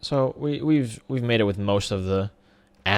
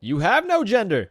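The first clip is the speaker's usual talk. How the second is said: shoots up high and louder in disbelief; mock astonishment; 11 semitones higher, 3 dB louder than usual. Gamer to his sheep, high mock disbelief. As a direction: gasp out the discovery, jokingly appalled. Mock shock at genderless animal.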